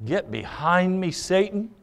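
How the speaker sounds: blunt command repeated softly, pitch lifted; quiet but pointed rebuke. Retold or imitated. Jesus rebuking Peter a second time, bluntly. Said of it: "speaks to him very bluntly and says".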